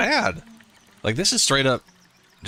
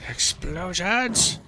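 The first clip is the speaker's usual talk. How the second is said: drawn-out, high delighted shout; gleeful cry; 9 semitones higher, much slower than usual. Real, not acted. Gamer cheering a big blast, drawn-out and gleeful. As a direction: savor the word slowly, thrilled.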